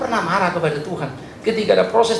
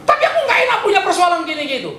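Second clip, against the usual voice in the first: high mock whine of a complaining believer; whiny complainer; 13 semitones higher, 3 dB louder, faster than usual. Pastor imitating a complaining believer, high mock whine. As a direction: imitate a believer grumbling about problems.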